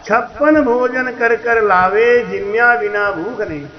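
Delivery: measured, slow verse recitation; slow recital with a falling close; recited verse. Real, not acted. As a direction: speak the couplet deliberately, without singing. Recites the sung verse again, unsung.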